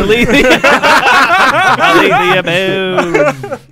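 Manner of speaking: high, slow, hammed-up Australian drawl; mock Australian. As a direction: stretch the name like a cartoon Aussie. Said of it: "easiest to do an Australian accent".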